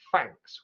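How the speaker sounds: thanks said as fanks. Shown as a demonstration. Teacher demoing Cockney thanks as fanks. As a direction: swap the TH in thanks for an F. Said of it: "with an F sound".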